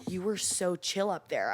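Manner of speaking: soft, low and slow quoted friend; chill compliment. Retold or imitated. Friend compliments comedian after a slow set, mellow. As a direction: imitate a friend's mellow praise.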